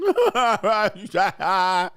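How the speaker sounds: big burst of loud laughter. Real, not acted. Host laughing at crying men, loud laugh.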